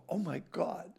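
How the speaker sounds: high-pitched starstruck gushing, building to a shout; gushing maitre d'. Retold or imitated. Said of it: "the maitre d' comes over".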